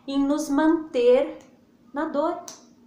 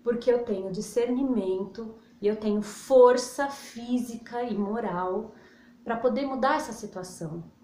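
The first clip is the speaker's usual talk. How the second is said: prayer; 3 semitones lower than usual. Shown as a demonstration. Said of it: "E fala".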